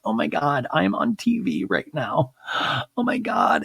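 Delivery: mock crying. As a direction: imitate an overwhelmed mom on TV, hammed-up. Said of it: "the mom's already crying".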